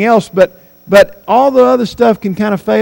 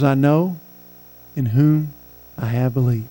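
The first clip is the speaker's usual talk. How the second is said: faltering whisper; 6 semitones lower, 7 dB quieter than usual. Retold or imitated. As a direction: let the voice sink away as if strength is gone. Dying woman's last words, faltering.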